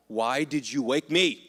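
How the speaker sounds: slow, grumpy, just-woken complaint; annoyed grumble. Retold or imitated. Jesus grumbles at the disciples who woke him, annoyed. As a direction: sound cranky at being woken. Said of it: "woken up just mad".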